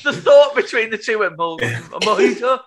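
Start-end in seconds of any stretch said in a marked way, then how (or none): 1.4-2.6 put-on Spanish accent. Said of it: "it went a bit Sanchez".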